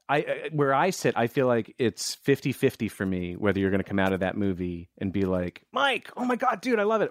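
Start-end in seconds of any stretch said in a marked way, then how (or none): 5.7-7.1 much higher, excited fan squeal; mock gushing. Director imagining a fan loving his movie, high excited gush.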